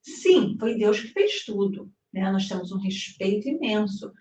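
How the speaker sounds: high, loud, emphatic retelling; emphatic retold reply. Explaining to the American man, emphatic and rising. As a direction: press the point home, voice rising. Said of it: "Eu falei".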